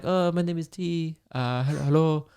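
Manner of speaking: imitating a tour guide's vague European accent badly; mock European accent. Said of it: "I'm butchering it 'cause I".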